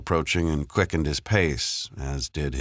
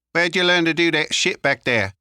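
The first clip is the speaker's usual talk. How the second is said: high-pitched street lad; Leon, questioning; 5 dB louder than usual. Acted. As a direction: press him in a high, raised voice. Figure in narrated story.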